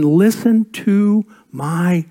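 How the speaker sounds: very slow, tender "Listen to my prayer"; slow tender plea. Shown as a demonstration. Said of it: "Verse one".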